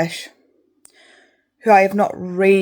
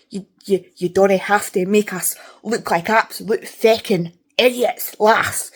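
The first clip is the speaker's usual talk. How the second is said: exaggerated Scottish dialect, slow and pointed; mock written Scots; slower than usual. Reader scolding authors who write mangled Scots, mock Scottish dialect. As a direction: lay on the book-Scots in irritation. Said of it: "that's how they write it".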